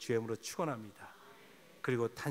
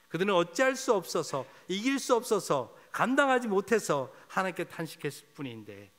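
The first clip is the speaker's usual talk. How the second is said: emphatic; 5 semitones higher, 6 dB louder than usual. Real, not acted. Preacher stressing helplessness.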